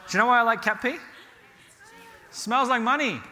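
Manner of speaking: laughing through a loud confession. Real, not acted. A landlord confessing to the class, laughing. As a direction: chuckle while you admit it. Confessing a love of cat pee.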